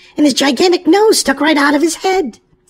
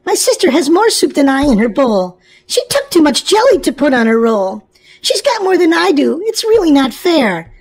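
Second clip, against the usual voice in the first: put-on whiny child; 3 semitones higher than usual. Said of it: "whined Peter".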